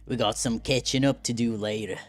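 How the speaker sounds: put-on light country-boy character voice; folksy Southern swordsman, easygoing. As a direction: play an easygoing Southern fighter. Voices game character Lei Hang.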